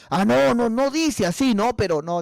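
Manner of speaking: high-pitched stretched protest; mock backpedalling. Brother challenged for a Bible text, flustered denial. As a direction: imitate someone caught out and wriggling.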